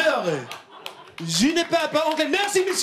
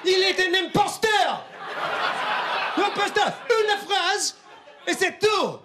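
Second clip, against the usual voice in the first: laughing mock outrage; 5 semitones higher than usual.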